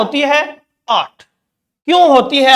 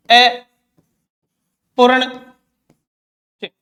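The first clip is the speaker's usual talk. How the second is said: drawn out slowly; 2 semitones lower, much slower than usual. Shown as a demonstration. Teacher spelling out a term for students, very slow. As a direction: stretch every syllable of अपूर्ण चिन्ह, very slow. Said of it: "वो है".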